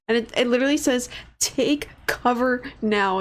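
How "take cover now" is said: slow, emphatic Take cover now; all caps read. Retold or imitated. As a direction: read Take cover now slowly, every word hit. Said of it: "in all caps".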